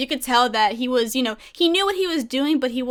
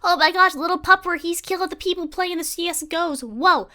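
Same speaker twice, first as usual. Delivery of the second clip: high, amazed fan voice; 5 semitones higher than usual. Retold or imitated. Fan discovering a streaming dog, amazed. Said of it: "I'm like".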